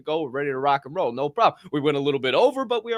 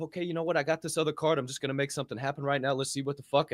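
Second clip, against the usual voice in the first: muttering to himself; 7 dB quieter, faster than usual. Retold or imitated. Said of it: "So I said to myself".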